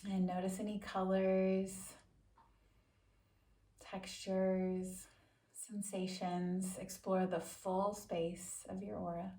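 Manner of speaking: calm, measured meditation voice with long pauses; guided meditation. Acted. Yoga teacher settles listeners into a quick seated meditation, calm guided-meditation delivery. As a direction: guide them unhurriedly, leaving space after each instruction.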